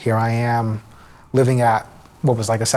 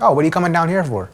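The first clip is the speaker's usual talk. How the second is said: mock cheerful cousin; 7 semitones higher, faster than usual. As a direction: imitate a cousin stalling before bad news. Cousin stalling before bad news.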